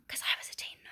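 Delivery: hushed, breathy whisper of a confession; sudden whispered admission. Real, not acted. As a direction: drop to a whisper as if sharing a secret. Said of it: "Don't know why I'm whispering".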